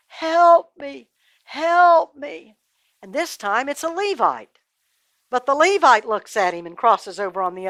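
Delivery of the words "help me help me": high, loud holler; hollering for help. A narrator's reading. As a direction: call out desperately to the passer-by. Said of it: "he hollers again".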